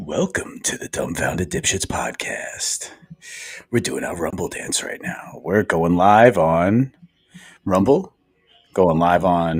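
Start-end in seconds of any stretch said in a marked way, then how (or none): 0.0-2.9 very soft, hushed radio announcer voice. Opening their podcast, the host welcomes listeners in a radio voice. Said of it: "Radio voice".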